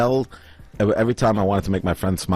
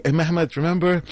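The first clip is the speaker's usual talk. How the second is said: high-pitched mock panic; imitated freaking out; 10 semitones higher than usual. Scammer pulling Mehmet into his excuse, imitated high panic. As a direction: scramble for an ally high, imitating. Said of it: "he's freaking out".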